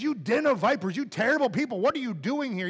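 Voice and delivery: preacher's rebuke. Retold or imitated. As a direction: call them vipers with force. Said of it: "But that's what he says".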